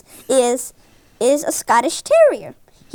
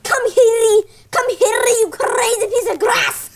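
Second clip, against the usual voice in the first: put-on Max's Scottish accent; 9 semitones higher than usual. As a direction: play a Scottish terrier, rolling the R's hard. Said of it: "say something in Max's Scottish accent".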